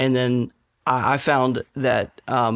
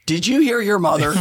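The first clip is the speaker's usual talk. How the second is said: stern dad; 8 semitones higher, 4 dB louder than usual. Retold or imitated. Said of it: "And I'm like".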